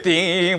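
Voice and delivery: long ringing "ting" noise; imitated impact. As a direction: draw out the sound of the hit. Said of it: "막히는 거야".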